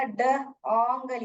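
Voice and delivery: ड, ओंगल sounded out in parts, d, then ong-gul; short "o" in ओंगल, split from ड; short-sound reading. Shown as a demonstration. Teacher breaks dongle up for pupils, short-sound reading. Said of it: "short sound बोलेगा".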